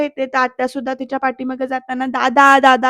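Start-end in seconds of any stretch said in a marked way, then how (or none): 2.1-2.9 lightly raised retold call. Aunt fetching brother for upset Vaidehi, mild calling out. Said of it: "असं हाक मारत जाते".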